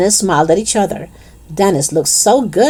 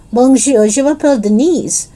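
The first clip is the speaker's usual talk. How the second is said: playful schoolkid French, pitched high; mock French accent; 6 semitones higher than usual. A narrator's reading. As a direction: show off put-on French in a raised voice. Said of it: "say anything in a French accent".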